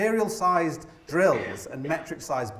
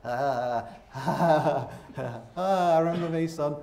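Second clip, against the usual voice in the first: put-on old dad reminiscing; much slower than usual. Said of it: "when I'm an old man".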